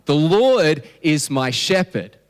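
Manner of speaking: solemn, slow recitation of the verse; slow scripture reading. Shown as a demonstration. Pastor reciting Psalm to congregation, slow and solemn. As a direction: let each word land deliberately. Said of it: "All right, here it goes".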